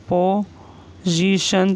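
पोजीशन drawn out very slowly; slow, careful dictation. Shown as a demonstration. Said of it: "proportion के बाद है".

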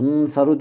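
Nsaru sözünün başında ünlüsüz, uzun bir n; Nsaru'da nnn sesini tutup saru'ya geç; harekesiz ilk ses. Shown as a demonstration. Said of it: "diyorum ben telaffuz ediyorum". (Nsaru'yu sakin nun ile, başına ünlü koymadan söyle)

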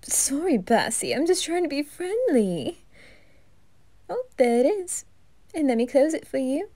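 lightly voiced flirty reaper, playful; a hint of camp flirtation; flirty Grell. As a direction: tease him, sing-song.

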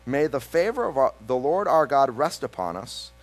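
scripture reading. Acted. Pastor reading the psalm to the congregation, solemn reading voice. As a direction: read the psalm with gravity. Reads Psalm ninety aloud.

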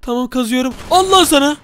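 high, stammering appeasement; mock frightened pleading. Gamer calms a threatening gunman, high mock-scared stammer.

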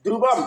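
"ধ্রুবম" with anusvara said as m; demonstrated pronunciation. Shown as a demonstration. Teacher concludes the rule, "ধ্রুবম" ending in m. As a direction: close "ধ্রুবম" on m with a falling tune. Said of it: "আমরা জানি অনুস্বার উচ্চারণ".

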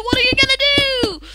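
high, fast, silly repeat of the line; mock silly voice. Mocking the chaos of the match in a high goofy voice.

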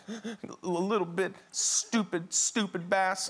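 put-on sulky kid. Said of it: "He said".

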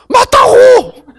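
high, loud insistent shout. Real, not acted. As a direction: yell it out to insist. Insisting to the audience. (크고 높게 외치듯)

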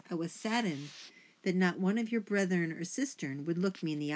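lightly voiced pompous father, announcing; self-important father mouse. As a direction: make a formal family proclamation, a touch grand.

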